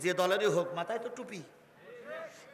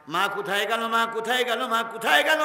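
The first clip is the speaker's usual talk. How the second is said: rising, louder with each call; the son's worried calls growing higher; calling for mother; 6 semitones higher, 7 dB louder than usual. Acted. Son calling out for his missing mother, rising.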